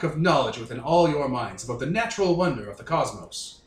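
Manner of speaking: lightly put-on snooty British accent; a North American badly faking a haughty Brit. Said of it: "doing a terrible impression of a British person".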